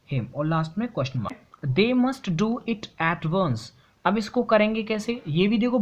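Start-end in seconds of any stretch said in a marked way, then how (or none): 1.8-3.7 reading the sentence very slowly, word by word; slow classroom dictation of an example sentence. Shown as a demonstration. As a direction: dictate it so students can write along.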